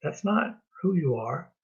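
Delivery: gentle fatherly God. Pretend. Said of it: "and say".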